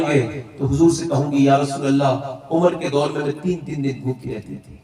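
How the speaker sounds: low, sorrowful plea; widow's lament. Acted. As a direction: grieve like an old hungry widow.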